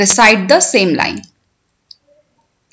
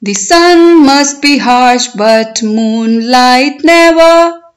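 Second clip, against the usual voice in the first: poem recitation. Shown as a demonstration. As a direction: recite it for learners, stretching the words, lifting line endings. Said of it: "I will recite line by line".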